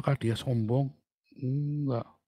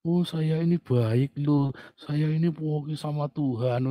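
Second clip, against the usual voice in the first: mock sweet talker; 3 semitones higher, slower than usual. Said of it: "Ngomongnya pelan-pelan".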